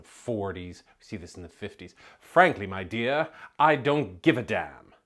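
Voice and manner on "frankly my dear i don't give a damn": louder, lightly voiced mid-Atlantic accent; a hint of a mid-Atlantic accent, louder; mid-Atlantic movie line. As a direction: quote the classic line with mid-Atlantic polish. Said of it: "It's American, but it's mid-Atlantic".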